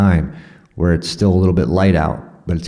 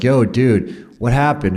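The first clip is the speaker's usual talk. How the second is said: locals asking; 6 semitones higher than usual. Retold or imitated. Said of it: "the locals were like".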